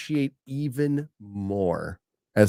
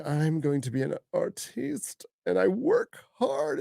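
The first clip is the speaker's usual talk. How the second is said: mock artiste; 6 semitones higher, 8 dB quieter than usual. Mocking pretentious artists.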